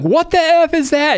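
very high, stretched-out mock alarm; imitated freak-out. Player pointing at the book, imitated freak-out. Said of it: "she's freaking out".

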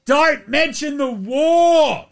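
high, very slow hammed-up warning; slow, high mock cry; comic quote. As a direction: shout it as a panicked hotel owner. Quoting a classic comedy line.

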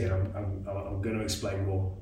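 talking between sips of tea; words around a mouthful of tea; while sipping a drink. Real, not acted. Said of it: "have a bit of tea".

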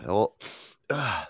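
ordinary talk

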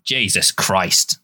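slow, drawn-out New York exasperation; New York guy. Retold or imitated. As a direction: stretch it like a fed-up New York driver. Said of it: "New York guys going".

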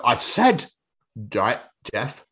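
put-on cutting in, Yorkshire accent; Yorkshire boss. Boss interrupting Jeff, firm Yorkshire accent. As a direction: shut him down in Yorkshire. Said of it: "has been built in Yorkshire".

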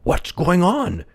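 high, drawn-out villager's question; inquiring villager. A narrator's reading. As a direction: ask it slowly in a high character voice. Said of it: "inquired another villager".

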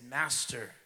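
whispered, slow yielding; low, hushed surrender. A narrator's reading. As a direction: breathe the words out in devotion. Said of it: "His voice came low".

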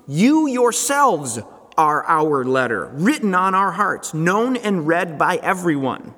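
measured, emphatic reading from the pulpit; scripture reading. Acted. Pastor reading Paul's letter to the church, deliberate scripture reading. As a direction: read it out deliberately, leaning on key words.

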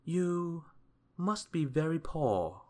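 high-pitched, kindly wizard. A narrator's reading. Wizard pitying Mister Mean's poverty, kindly. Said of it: "he remarked kindly".

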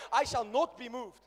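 slow, loud, laughing proclamation; shouted declaration. Acted. Preacher shouting the line for neighbors to repeat, laughing.

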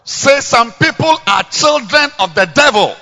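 man and woman together. Shown as a demonstration. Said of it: "Let's say together".

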